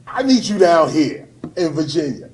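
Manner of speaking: retold caller hollering; urgent phone summons. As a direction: call out hard like a friend needing help now. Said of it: "He calls me up".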